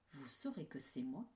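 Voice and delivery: put-on whispered secret to the kids. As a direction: hush it like a secret. Mother goat's secret instruction.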